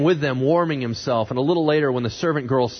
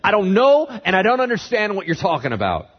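raised, high-pitched protest; indignant denial; 8 semitones higher, 4 dB louder than usual. Acted. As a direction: push the denial away loudly. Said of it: "he denied it before them all".

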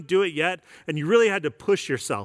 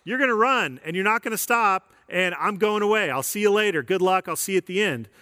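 upbeat coach signing off; breezy trainer handing off; audio coach voice; 4 semitones higher than usual. Retold or imitated. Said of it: "she just basically says".

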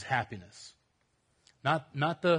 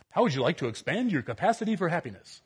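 fast salesy pitch; infomercial voice; 3 semitones higher, faster than usual. Acted. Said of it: "I sound like an infomercial".

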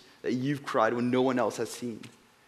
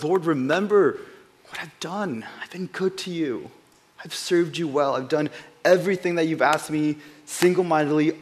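pleading prayer; 2 semitones higher than usual. Retold or imitated. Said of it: "he says it in such a way".

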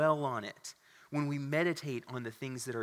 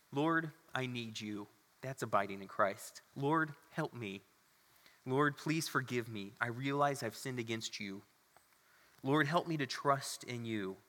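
slow sincere prayer. Shown as a demonstration. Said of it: "basic phrases like this".

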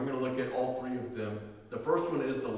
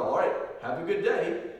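lightly acted, higher-pitched goodbye; casual farewell; 4 semitones higher, 4 dB louder than usual. Demonstrating a common parting to somebody, casual farewell. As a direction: toss off an everyday send-off. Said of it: "It's sort of a farewell".

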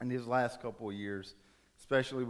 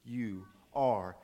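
slow, word-by-word reassurance; calmly insist, spacing out each word; firm, tender parent; much slower than usual. Acted. Parent gently insists to upset son.

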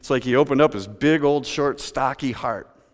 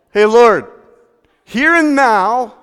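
loud, high bold pledge; louder, higher, here and now slowed; Zacchaeus declaring; 9 semitones higher, 10 dB louder, slower than usual. Acted. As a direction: stand and announce it boldly. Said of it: "he stands up".

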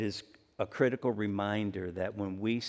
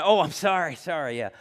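breezy apology; 6 semitones higher, 6 dB louder than usual. Retold or imitated. Quick apology after bumping someone.

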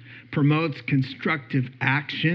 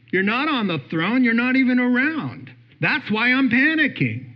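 fast, rising panicky complaint to God, getting higher at the end; voice of worry; 4 semitones higher than usual. Acted. Preacher voicing worry's complaint to God, panicky and fast. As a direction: play worry accusing God, spiralling into panic. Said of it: "you know what worry says?".

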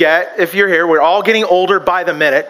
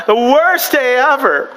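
mock sulky child; 4 semitones higher, slower than usual. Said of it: "You remember that, hon?".

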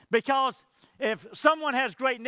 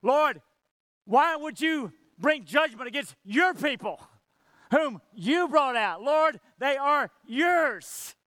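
higher, slow earnest plea; mild imitated desperate plea; pleading cry; 4 semitones higher, slower than usual. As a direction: cry out to God for his people. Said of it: "Moses cries out to God".

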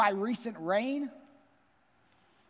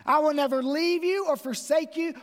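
raised high and loud, ringing out; proclaimed promise; 6 semitones higher, 5 dB louder than usual. Retold or imitated. Pastor proclaiming God's promise to the congregation, loud and high. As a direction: declare the promise with full force.

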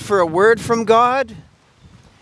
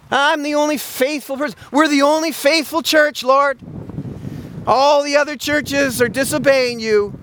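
higher, smug whining voice; mock self-righteous whine; 5 semitones higher than usual. Preacher mocks a church bragging it alone is faithful, smug and whiny. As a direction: parody a church boasting to God.

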